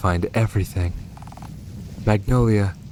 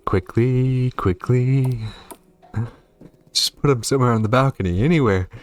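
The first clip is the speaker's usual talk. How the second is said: fast, urgent orders, a bit higher; panicked hurry; 4 semitones higher than usual. Real, not acted. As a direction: rush them, hiding the body in a hurry. Hiding a corpse in a rush.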